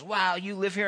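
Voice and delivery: mildly acted wonder at the house; amazed question. Rocky marvels at Pip's mansion, amazed.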